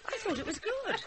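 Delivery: high voice through laughter; laughing. Acted. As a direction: say it as laughter breaks out. Family bursting into laughter.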